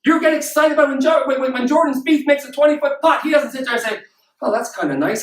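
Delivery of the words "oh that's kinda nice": lower, underwhelmed mock reaction; unimpressed. Sports star shrugging off a long putt, unimpressed. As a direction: play it mildly pleased, no excitement. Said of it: "He's excited, he's pumped".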